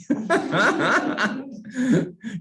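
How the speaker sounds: a real high burst of laughter at his own joke; amused laugh. Real, not acted. Laughs at own role-play joke.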